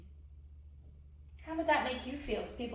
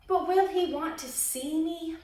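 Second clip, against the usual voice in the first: anxious call, higher and louder; a puppet calling out anxiously; crying out; 6 semitones higher, 7 dB louder, slower than usual. Acted. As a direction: call out hopefully after her. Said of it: "Punchinello cried out".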